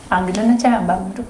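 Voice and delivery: ordinary delivery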